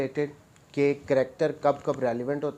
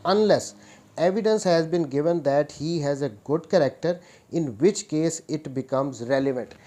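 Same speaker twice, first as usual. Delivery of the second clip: slow, deliberate dictation of the law text; reading the statute; much slower than usual. Shown as a demonstration. Law teacher reading the act aloud to students, slow dictation pace. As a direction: spell it out word by word so students can note it down.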